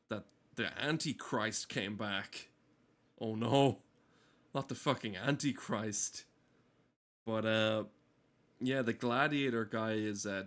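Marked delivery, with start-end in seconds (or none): none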